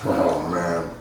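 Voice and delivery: burned by wasabi heat; after eating wasabi. Real, not acted. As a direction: talk through the wasabi burn. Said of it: "It's hot".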